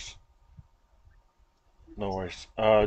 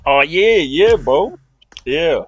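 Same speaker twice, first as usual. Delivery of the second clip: excited cheer; 5 semitones higher, 9 dB louder, slower than usual. Real, not acted. Cheering a returning friend.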